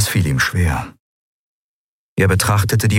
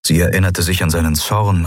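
usual speaking voice

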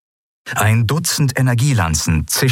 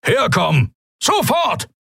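barked order, high and urgent; commanding shout. Acted. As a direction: order her over at once. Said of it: "donnerte eine mächtige Stimme".

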